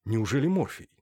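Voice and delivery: ordinary delivery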